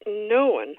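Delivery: "No one" set apart with stress on "No"; emphatic retort. Retold or imitated. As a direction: retort "No one", leaning on it mildly. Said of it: "he retorts".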